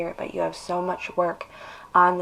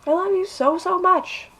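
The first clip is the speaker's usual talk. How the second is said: tearful, high and louder declaration of love; half crying, voice up high; 10 semitones higher, 5 dB louder than usual. Real, not acted. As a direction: push through the tears, pitched up. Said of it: "but I'm also half crying".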